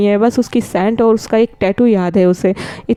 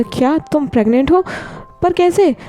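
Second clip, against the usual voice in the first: disbelief jumping high on पर कैसे; stunned, voice shooting up; shocked question; 6 semitones higher than usual. Acted. Friend hears Wing is pregnant, shocked and high.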